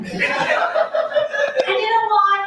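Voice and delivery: high, slow, stretched-out "And you know what?"; milk the line, stretching every word; drawn-out exclamation. Acted.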